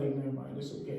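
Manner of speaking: quietly backing down, imitating yourself; retold giving up. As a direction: drop the volume and let it go. Gives up after being misheard.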